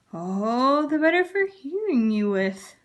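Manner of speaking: slow wobbly grandma voice. Acted. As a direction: keep it wobbly. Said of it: "the same wobbly voice".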